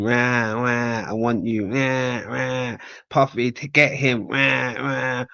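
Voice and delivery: mock tantrum. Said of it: "She threw a little tantrum".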